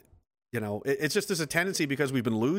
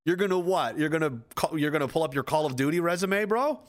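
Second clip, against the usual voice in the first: higher, incredulous taunt rising to a squeak on "bro"; mocking challenge; 3 semitones higher than usual. Veteran taunting a gamer tough guy, incredulous rising mockery. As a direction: needle the wannabe with "You're gonna what?" pitched up. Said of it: "I'm like".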